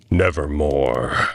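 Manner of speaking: low, slow raven croak; a hint of an ominous raven; lightly voiced raven. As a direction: drop low and lay it down like a dark bird. The raven's answer.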